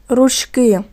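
"Ручки" with the stress on КИ; stress on second syllable. Shown as a demonstration. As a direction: lean on the final syllable of "Ручки". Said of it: "наголос тут теж перейшов на другий склад".

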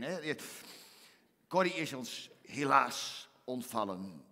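usual speaking voice

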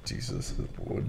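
mock Nigerian accent, breathy. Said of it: "Nigerian accent".

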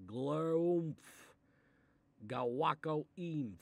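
silly sounds. Acted. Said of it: "And make silly sounds".

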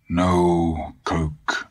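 put-on "Coke" said the way the old German says it; foreign pronunciation. A narrator's reading. Dusander refusing the boy a soda, "Coke" in a foreign way. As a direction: give "Coke" his own old-country vowel. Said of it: "He pronounced it Coke".

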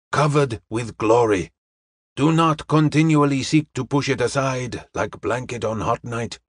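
measured, formal reassurance to an assistant; a hint of a patient mentor, spoken ceremoniously; lightly voiced kindly detective.

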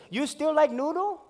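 high pidgin question with a rise; vendor lady. Retold or imitated. Vendor lady offering him noodles, high and sweet. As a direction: ask it sweetly like an auntie.

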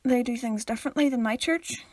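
straight-faced joke delivery; deadpan. Real, not acted. Answering the cataholic pun with a joke, deadpan. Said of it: "said that with such a straight face".

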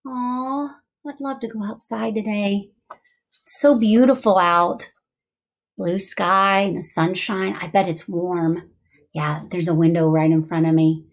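low, wistful daydream aloud; distracting inner voice. Shown as a demonstration. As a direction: drift off into idle, longing thoughts. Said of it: "that was distracting voice".

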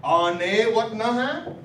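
Ane what nahan said slowly and clearly; modelled Arapaho phrase. Shown as a demonstration. Teacher drilling the class, slow clear model phrase. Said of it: "An kinakana".

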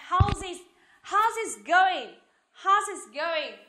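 "How's it" run together, the z sliding into "it"; teacher showing students the linking in "How's it", slow and joined up; linked sounds. Shown as a demonstration. Teacher models the link between z and it in "How's it", linked clearly. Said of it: "một cái nối âm ở đây nhá".

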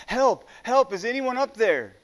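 high, loud desperate calls, voice straining up; a man clinging to a cliff branch yells for rescue; panicked cry for help. A narrator's reading. Stranded hiker calling up the cliff face, panicked and loud. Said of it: "begins to panic and cry out for help".

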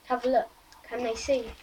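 talking into rim of glass; muffled against drinking glass; speaking with glass at lips. Real, not acted. Seen 1: small glass held against lips throughout labelled words.

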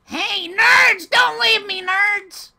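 calling out. Real, not acted. Calling after fleeing teammates.

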